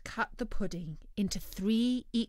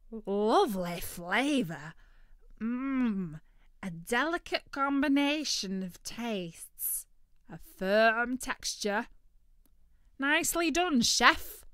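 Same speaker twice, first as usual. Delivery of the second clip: turkey voice; 4 semitones higher, 5 dB louder, slower than usual. Acted. Turkey savouring, then praising.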